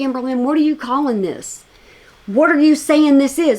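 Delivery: ordinary delivery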